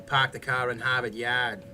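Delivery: Boston accent, R's dropped: pahk the cah in Hahvahd Yahd. Shown as a demonstration. Showing chat the Boston accent. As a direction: drop the R's Boston-style. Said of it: "The Boston accent".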